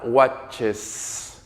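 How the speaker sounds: "watches" with its final es fully sounded; clear ES ending. Shown as a demonstration. Teacher modeling third person for students, "watches" with clear es ending. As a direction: draw out the last s of "watches". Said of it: "esta E S que suene fuerte y claro".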